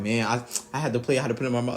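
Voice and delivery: laughing. Retold or imitated. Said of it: "She, she was like".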